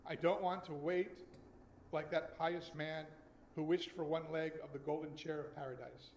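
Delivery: slow, measured poem recital; poem reading. Acted. Rabbi reading a poem to the congregation, slowly and measured. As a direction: let each line land slowly.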